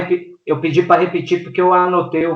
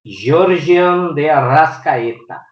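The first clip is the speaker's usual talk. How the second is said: put-on Italian accent; 2 semitones higher, much slower than usual. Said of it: "O sotaque italiano aí foi lindo".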